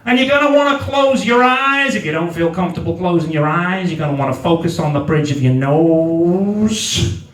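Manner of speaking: soothing sleep-app voice, dropping in pitch; meditation instructor. Acted. Instructor guiding someone to close their eyes, meditation voice.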